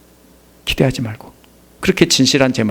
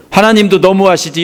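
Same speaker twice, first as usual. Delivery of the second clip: higher-pitched mock grumble at God; imitated resentment; 6 semitones higher than usual. Preacher voices a struggling believer blaming God, resentful. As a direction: act out a sufferer's complaint. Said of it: "이러면서 원망이 나오겠죠?".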